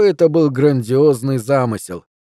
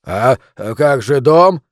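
babbling; 4 dB louder, slower than usual. Acted. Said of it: "пролепетал я".

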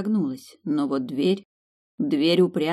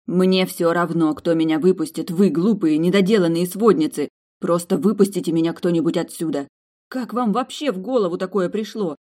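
ranting through the locked door; angry scolding; 2 semitones higher, 3 dB louder than usual. Acted. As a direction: rant at the silly matchmakers. Mildred berates her friends.

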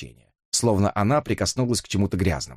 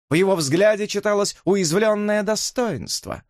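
much higher, mocking questions; taunting Elisa; 9 semitones higher than usual. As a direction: needle pretty Mary. (насмешливая Элиса, голос выше)

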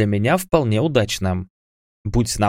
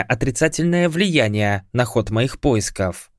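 higher, haughty divine voice; haughty goddess; 3 semitones higher than usual. Acted. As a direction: speak down from divine height. Goddess answers the hero.

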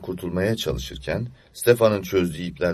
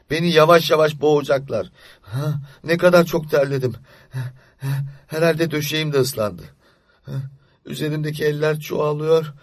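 put-on small scared child voice, pitched higher; a child whispering fears to himself in the dark; frightened child; 9 semitones higher, 4 dB louder than usual. Boy hiding from night witches under the quilt, frightened.

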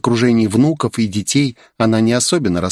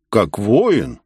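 mocking smirk. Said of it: "усмехнулся Крамбл".

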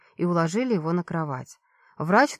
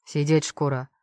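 guard barking; 5 semitones lower than usual. Acted. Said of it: "рявкнул на меня второй".

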